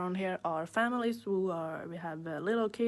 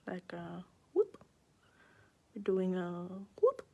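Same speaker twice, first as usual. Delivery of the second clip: sing-song whoop sound; playful whoop. Shown as a demonstration. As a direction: say whoop like a little swoop. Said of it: "what was the sound I make".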